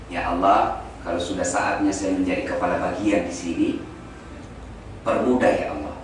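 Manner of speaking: low, measured supplication; demonstrated prayer. Shown as a demonstration. Preacher showing congregation how to pray, low pleading prayer. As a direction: model a humble plea to God. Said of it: "kalau kita berdoa selalu bilang begini".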